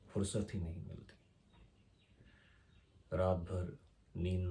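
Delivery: unhurried verse reading in short, separated phrases; poem recitation. Acted. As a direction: recite line by line with pauses, lightly emphatic openings. (ठहराव के साथ कविता पाठ)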